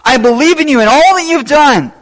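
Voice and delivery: a hint of the healed man pleading with Jesus; mild pleading. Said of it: "He pleaded with him".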